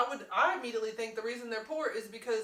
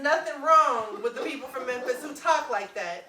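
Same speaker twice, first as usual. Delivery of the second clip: laughing; 2 semitones higher, 5 dB louder, slower than usual. Real, not acted. Laughing defense of Memphis.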